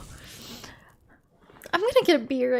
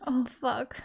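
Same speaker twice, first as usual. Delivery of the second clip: whispered curse; 3 semitones lower, 5 dB quieter than usual. Real, not acted. Stressed over puzzle.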